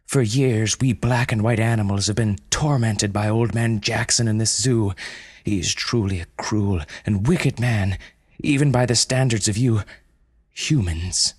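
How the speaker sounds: bitter panda accusing humans. Acted.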